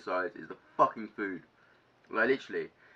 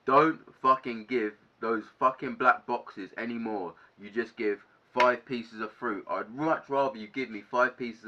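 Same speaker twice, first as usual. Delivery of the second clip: slow, louder mock rant; retold rant; 4 dB louder than usual. Inmate on the landing ranting at staff, slow louder rant. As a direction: rant it out deliberately, word by word. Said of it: "I'd be ranting about fucking black boxes".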